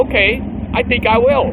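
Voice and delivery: hammed-up tough-guy answer; mock defiant shout. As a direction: accept the challenge at full volume. Retold acceptance of the fight.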